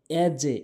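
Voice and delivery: ইয়াজে with an echoed bounce on j; qalqalah. Shown as a demonstration. Teacher telling learners how to say it, bounced ইয়াজে. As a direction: let the j in ইয়াজে rebound. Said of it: "এভাবে উচ্চারণ করবেন".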